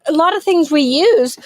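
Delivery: talking through hiccups; words broken by a hiccup. Real, not acted. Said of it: "I get the hiccups".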